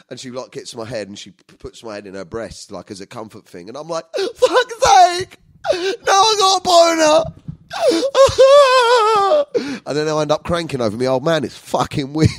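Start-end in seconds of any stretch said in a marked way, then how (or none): 4.2-7.2 loud, very high comic blubbering; hammed-up crying. Retold crying while being comforted. 7.3-9.8 loud, high fake sob; long comic crying howl; mock sobbing wail. Mock sobbing after retold line.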